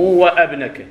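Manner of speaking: وابنك with a long separated wa-abnek; the mistaken cut reading; wrong cut hamza. Shown as a demonstration. Teacher showing the class the mistaken reading. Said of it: "مو".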